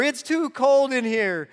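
put-on high, slow whining four-year-old; mimicking a whiny toddler complaining; whiny kid voice. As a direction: whine it like a cranky child. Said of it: "he gets whiny".

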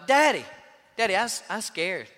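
lightly voiced small girl, frightened; scared little girl. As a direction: plead like a toddler stuck up top. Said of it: "and she said".

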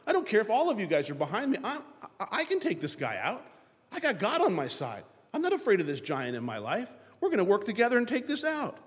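fast, eager, confident David; lightly hammed-up defiant David; bold David. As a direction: rush in like a fearless boy. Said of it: "David said".

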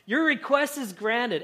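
slow, fond lines with a chuckle; Jesus delighted, speaking through a laugh. Retold or imitated. Jesus laughing warmly to the woman, slow and fond. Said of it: "and he's laughing".

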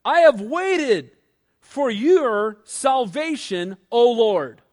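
a fervent, drawn-out cry; crying out to God. Retold or imitated. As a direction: call out slowly to the Lord, pleading. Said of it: "He cries out".

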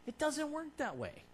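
ordinary talk, nothing marked

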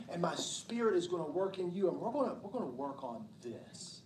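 soft, hushed and tender, almost whispered; softly reassuring voice of God; gentle God voice. Retold or imitated. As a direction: speak as God gently coaxing a struggling child. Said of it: "God coming to us and saying".

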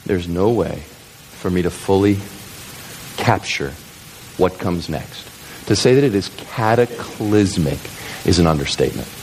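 low, halting, weighty delivery; solemn preaching build-up. Acted. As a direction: hold them in suspense with pauses and low pitch.

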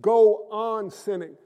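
slow, deliberate Go on sinning; stress on go on sinning. Shown as a demonstration. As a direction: Go on sinning said slowly, weighing each word. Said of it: "now notice what I said".

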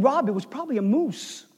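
lightly imitated Minnesota accent. Outfitter explains the night visitor to pastor, light Minnesota accent. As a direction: give it a touch of Minnesota accent. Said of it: "in his Minnesota accent".

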